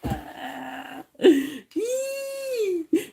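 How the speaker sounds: long high-pitched squeal of laughter. Real, not acted. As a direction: burst into a high, drawn-out laugh. Laughs at being asked about W.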